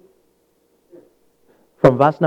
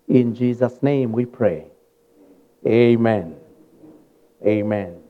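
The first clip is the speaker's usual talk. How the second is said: prayer; 2 semitones lower than usual. Acted. Preacher leads opening prayer.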